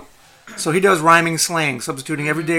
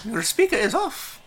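goblin voice; 7 semitones higher, slower than usual. Acted. Goblin speaks in rhyming slang.

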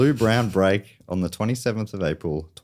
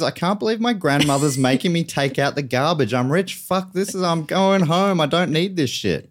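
mock rapper rant; 7 semitones higher than usual. Rapper's angry answer acted out.

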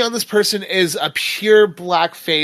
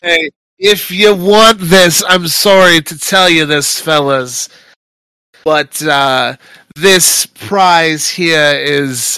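louder dealer; 5 dB louder, slower than usual. Acted. GM voices the dealer loudly.

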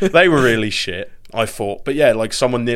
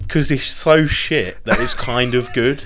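laughing; 2 semitones higher, slower than usual. Real, not acted. Laughing while speaking.

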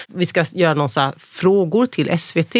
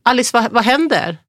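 higher-pitched retold call; 6 semitones higher than usual. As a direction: imitate a worried call from a distance. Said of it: "ser jag att Pontus ropar".

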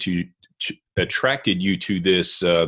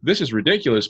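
higher-pitched mild exasperation; retold frustration; 6 semitones higher, faster than usual. Fed up with a twitching eyelid, mock exasperation. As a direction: act out being fed up, lightly. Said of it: "it was so frustrating".

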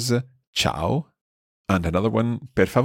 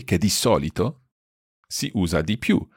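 slow careful reading. Shown as a demonstration. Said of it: "I'll read this again".

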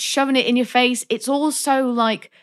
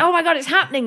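mock excitement; 9 semitones higher, faster than usual. Recounting tense film climax.

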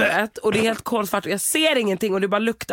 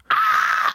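mock scream; 4 dB louder than usual. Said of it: "Alltså du vet, skriker".

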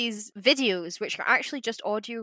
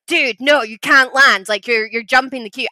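higher, louder mock exasperation; arguing controller; 3 semitones higher, 5 dB louder than usual. Controller refuses French pilot landing, mock-exasperated scolding. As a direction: imitate a fed-up controller telling someone off. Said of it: "they just have these huge fights".

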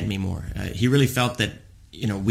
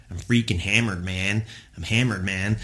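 put-on drunk Canadian with sharpened R's; imitated boozy Canadian accent. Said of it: "a Canadian accent".

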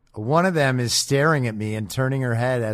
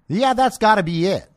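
sarcastic; 9 semitones higher, 4 dB louder than usual. Acted. Sarcastic conclusion.

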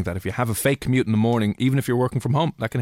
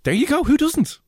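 excited; 3 dB louder than usual. Real, not acted. Joking about sausage pizza.

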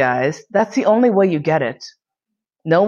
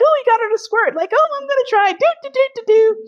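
squeaky high mock-eager voices, much higher; competitive guys imitated. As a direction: play the eager guys vying to win. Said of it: "Who can make her, like".

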